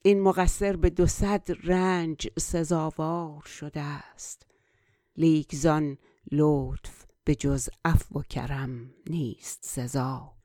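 flowing Persian verse recitation; poem recitation. Acted. Recites Persian verse before translating.

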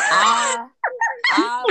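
can't get the word out for laughing; breaking up mid-word. Real, not acted. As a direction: burst of high laughter on a single word. Bursting into laughter.

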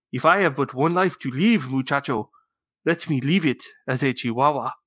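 hammed-up Spanish accent; cat playing chihuahua with a theatrical Spanish accent; Skippy John Jones. Dad performing picture book for co-hosts, mock Spanish accent. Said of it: "using his very best Spanish accent".

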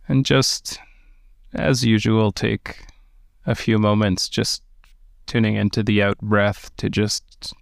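calm, unhurried meditation guidance; guided meditation. Acted. Teacher guiding listeners through meditation, in a calm guiding voice. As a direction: ease listeners into stillness with gentle pacing.

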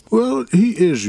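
put-on old man voice. Aben answers.

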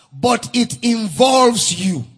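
slow, weighty pulpit delivery; deliberate preaching with punched words; emphatic preaching. Acted. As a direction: drive each phrase home, drawing out the key words. Preaches emphatically on heartfelt petition.

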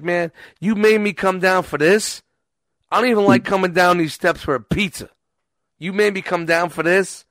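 mock indignant. Retold complaint to scammer.

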